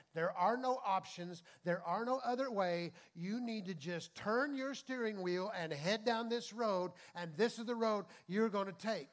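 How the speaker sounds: firm doctor's verdict, a bit mock-stern; insistent verdict. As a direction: insist there is no other way. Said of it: "somebody kept telling them".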